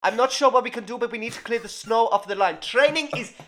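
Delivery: mock urgent official announcement. To the squad, a mock flustered official cancelling training.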